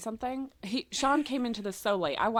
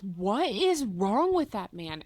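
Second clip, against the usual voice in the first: mock bafflement; 2 semitones lower, slower than usual. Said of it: "And Sean goes".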